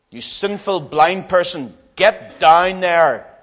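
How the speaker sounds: slow, hard rebuke building at the end; stern scolding. Acted. Crowd rebukes the blind beggar, stern scolding. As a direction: order him down word by drawn-out word.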